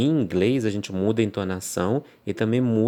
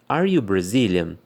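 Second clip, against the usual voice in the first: slow, clear question, a bit louder; slow demo question, a little louder; asking a question; 4 dB louder than usual. Shown as a demonstration. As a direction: ask it like a real question to a student.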